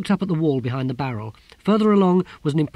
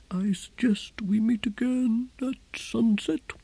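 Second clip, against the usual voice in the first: whispered; 11 semitones higher, slower than usual. Acted. Tyrant lowers voice, ends talks.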